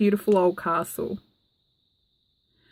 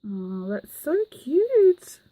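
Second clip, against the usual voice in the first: slow breathy whisper of delight; 6 semitones higher, much slower than usual. Real, not acted. Vlogger admiring a handmade gift, whispering with delight. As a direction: hush it out, overcome by how cute it is.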